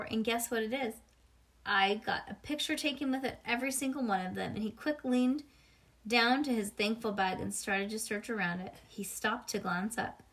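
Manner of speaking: ordinary delivery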